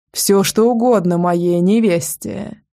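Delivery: slow, hoarse rasp of a wounded man. Acted. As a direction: rasp it out through pain. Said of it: "прохрипел он".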